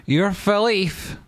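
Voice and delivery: high, slow, goofy repeat; silly high echo. Pretend. Streamer echoing a viewer's words in a high goofy voice.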